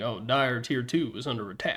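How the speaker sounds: straightforward, smooth, soft Texan drawl. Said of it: "very just like straightforward kind of Texan accent".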